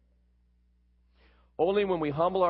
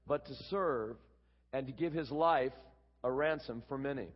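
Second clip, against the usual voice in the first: measured, softer Bible reading; scripture reading; 6 dB quieter than usual. Acted. Preacher reading the Gospel to the congregation, measured scripture reading. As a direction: read the passage aloud with deliberate phrasing. Reads the scripture passage aloud.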